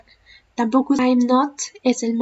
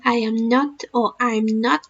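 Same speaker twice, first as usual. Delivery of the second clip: slow English model; slower than usual. Shown as a demonstration. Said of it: "vamos a ver también que en el caso del".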